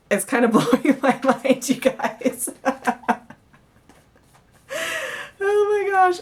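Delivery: laughing in disbelief, pitch jumping up; can't believe the cards, laughing it out; giggling, then a high astonished oh my gosh; amazed laughing. Real, not acted.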